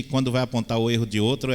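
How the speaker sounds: usual speaking voice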